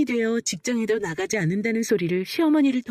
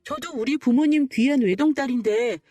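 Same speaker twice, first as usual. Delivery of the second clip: acted indignation, pitched up; higher, aggrieved retort; defiant comeback; 4 semitones higher than usual. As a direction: stand up to the mother-in-law without backing down. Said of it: "큰 소리를 내며 맞대응 쳤습니다".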